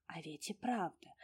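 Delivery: ordinary delivery, nothing marked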